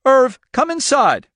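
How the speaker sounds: high, loud, slow plea; cry out. A narrator's reading. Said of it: "Norma cried".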